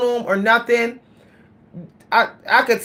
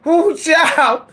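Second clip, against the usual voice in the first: high, breathless panicked wail; panicked cry; 5 semitones higher than usual. Retold or imitated. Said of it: "I started hyperventilating".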